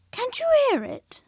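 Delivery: high whispered question; a boy's excited whisper; hushed question. Acted. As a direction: whisper it as if listening hard. Boy hears something, hushes.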